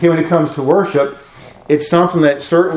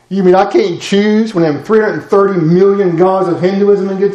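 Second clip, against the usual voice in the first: mock indignant objector; 4 semitones higher than usual. Voicing objectors, raised pitch.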